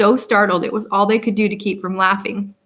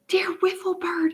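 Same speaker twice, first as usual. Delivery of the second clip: breathy urgent whisper, higher; fervent whisper; 9 semitones higher, 6 dB quieter than usual. A narrator's reading. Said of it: "he breathed fervently".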